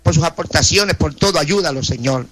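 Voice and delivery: earnest pleading prayer, voice rising and falling; fervent prayer. Acted. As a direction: intercede for each name before God. Radio prayer intercession. (oración ferviente e implorante)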